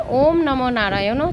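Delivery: slow, deliberate chanted words; slow mantra. Shown as a demonstration. Teacher showing the mantra said before sprinkling water, slow and deliberate. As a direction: intone the name slowly. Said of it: "চারবার বলে".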